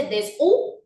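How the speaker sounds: desu as des-u, pure vowel; silent-H version. Shown as a demonstration. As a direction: say desu with no G sound. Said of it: "¿Usted dice desu".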